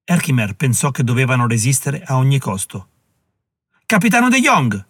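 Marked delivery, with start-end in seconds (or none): 3.9-4.9 richiamo alto e forte; chiamata. Acted. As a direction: chiama il capitano a gran voce. Generale chiama il capitano. (chiama il capitano a voce alta)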